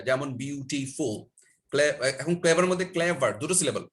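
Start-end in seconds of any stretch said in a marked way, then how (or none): 0.4-1.1 বিউটিফুল slowly in three beats, বিউ-টি-ফুল; teacher sounding out বিউ-টি-ফুল; syllable demonstration. Shown as a demonstration. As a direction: draw out each syllable of বিউটিফুল. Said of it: "যখনই syllable তিনটা হয়ে যায়".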